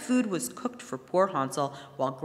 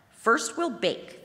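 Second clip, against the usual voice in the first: slow witch's announcement; 6 semitones higher, much slower than usual. A narrator's reading. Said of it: "the old woman said".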